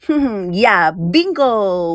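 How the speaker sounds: slow, teasing bingo; playful bingo. Acted. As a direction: drag it out playfully with a snap. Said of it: "调皮地打了一个响指".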